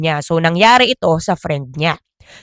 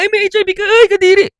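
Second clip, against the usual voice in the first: high, shrill-free mock disgust, lifted pitch; mock disgusted gossip; 11 semitones higher, 3 dB louder, much faster than usual. Mocking a person who shames the sick, high disgusted voice. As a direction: sneer like a judgmental gossip. Mocking someone shaming HIV patient.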